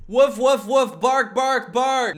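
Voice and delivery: loud barked woofs, high; mock dog barking. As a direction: yell woof like a cartoon dog. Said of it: "dogs don't just yell".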